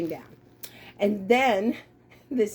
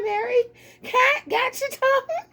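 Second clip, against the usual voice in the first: laughing tease; 5 semitones higher than usual. Real, not acted. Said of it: "she was laughing".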